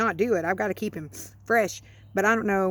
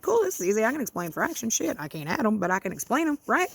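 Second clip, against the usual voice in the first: self-mocking confident; 3 semitones higher than usual. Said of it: "And I was like".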